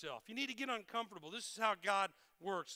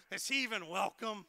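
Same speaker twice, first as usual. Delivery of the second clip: mock resentment; 5 dB louder than usual. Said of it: "I'm joking about that part".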